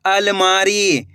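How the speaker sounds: slow and clear. Shown as a demonstration. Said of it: "कैसे पढ़ेंगे".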